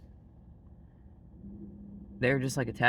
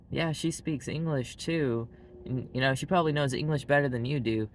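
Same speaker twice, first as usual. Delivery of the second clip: mock condescending grandfather; 3 semitones higher than usual. Preacher grandfather belittling grandchild's English.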